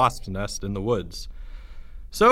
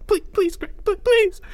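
high, stammering, desperate plea; terrified begging. Acted. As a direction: beg in a squeal, rising to a cry. Porge begs in terror.

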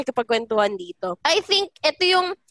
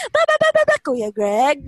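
sudden sweet greeting. Retold or imitated. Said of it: "sobrang bilis talaga ng shift".

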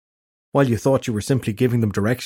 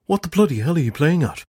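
exasperated; 6 semitones higher than usual. Acted. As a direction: throw up your hands in outrage. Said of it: "in an exasperated manner".

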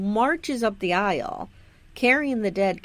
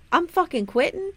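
higher, fed-up mock outburst; fed-up reverend; 7 semitones higher than usual. Rev telling Charles he quits, higher and fed up. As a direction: blurt out you're done. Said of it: "Rev tells Charles".

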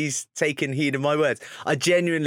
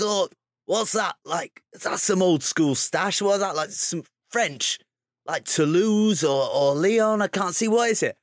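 high, slow imitation of the coach's accent; raised, drawn-out mock accent of the coach; Paul Gustard's accent; 6 semitones higher than usual. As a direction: mimic the coach's accent, puzzled and teasing. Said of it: "you've nailed his accent as well".

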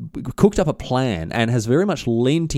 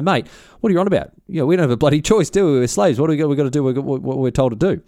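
incredulous mates; 3 semitones higher, faster than usual. Retold or imitated. Other slaves reply in a quote.

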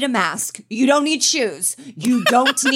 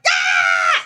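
mock child scream; 5 dB louder than usual. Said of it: "They're like".

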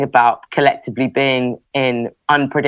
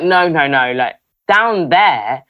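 lightly imitated Scottish lady's objection; slow, insistent mock protest, rising higher at the end; horrified old lady; 3 semitones higher, slower than usual. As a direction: draw it out as a scandalised old lady. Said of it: "it was super Scottish".

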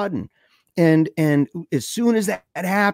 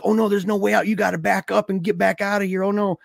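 high, mildly frantic chatter; urgent mock alarm; retold panic; 5 semitones higher than usual. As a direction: imitate friends panicking, pitched up. Trapped friends panic in the car.

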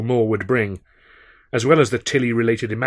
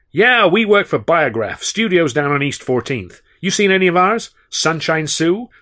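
higher, louder swaggering New Yorker; brash big talker; 5 semitones higher, 5 dB louder than usual. A narrator's reading. Sennett regaling the magician at the bar, brash and loud. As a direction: boom out tales like a saloon regular. Sennett plugs his films.

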